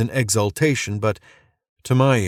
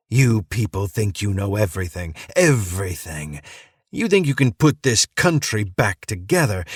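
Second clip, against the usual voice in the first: manic ranting preacher; 2 semitones higher than usual. Acted. Madman mocking the soldier, gleeful manic rant. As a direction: rave like a madman who loves his conspiracy.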